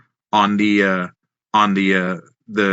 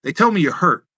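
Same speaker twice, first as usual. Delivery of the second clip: quoting Randy Hale; 7 semitones higher than usual. Retold or imitated. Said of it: "and he goes".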